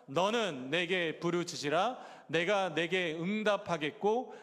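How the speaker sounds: slow, measured scripture recitation; drawn-out read-along pace, phrase endings held up; leading group reading. Real, not acted. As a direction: lead the congregation through the verse, word by word. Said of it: "같이 읽겠습니다".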